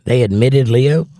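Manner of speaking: confused rising They admitted Leo?; puzzled question. Real, not acted. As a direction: ask it back in disbelief. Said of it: "What were you talking about?".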